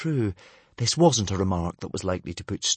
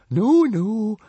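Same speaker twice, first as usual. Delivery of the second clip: soothing; 12 semitones higher, 6 dB louder than usual. Acted. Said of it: "murmured Fishlegs soothingly".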